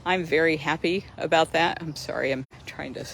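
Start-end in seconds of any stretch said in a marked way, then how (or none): 1.8-3.1 breathless, quiet and winded; out of breath. Real, not acted. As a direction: speak while short of breath. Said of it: "I'm out of breath".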